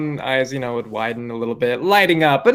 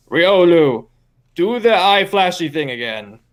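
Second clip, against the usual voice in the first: stern command; 2 semitones higher, 3 dB louder than usual. Acted. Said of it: "clears her throat a little bit and says".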